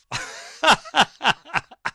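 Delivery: high loud burst of laughter; real laugh bursting out high; hearty laugh. Real, not acted. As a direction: crack up at the joke. Reacting to funny comment.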